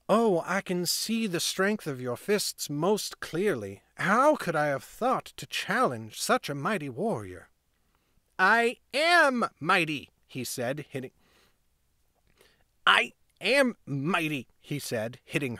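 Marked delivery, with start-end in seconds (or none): 0.1-7.5 mock admiration. Lauren mocking the boy. 8.4-10.1 put-on higher, louder, slow boy insisting; indignant boy. 12.9-14.5 put-on higher, louder, slow boy insisting; indignant boy.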